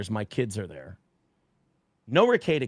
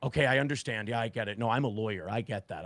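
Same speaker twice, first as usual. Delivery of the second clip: quieter, lower, brushing it off; dismissive reply; 4 semitones lower, 6 dB quieter than usual. Retold or imitated. Friend shrugging off the warning, softly dismissive. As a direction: mumble a fob-off, trailing away. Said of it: "He goes".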